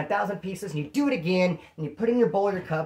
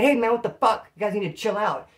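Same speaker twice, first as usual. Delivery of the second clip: annoyed confrontation; 4 semitones higher than usual. Acted. Angry option for the woken inmate.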